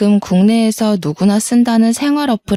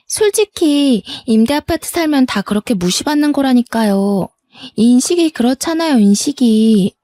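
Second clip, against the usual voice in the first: higher, snooty voice with swooping questions; condescending sister-in-law; 4 semitones higher than usual. Acted. Sister-in-law justifies looking down on rental tenants, snootily. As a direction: lecture her with brazen disdain.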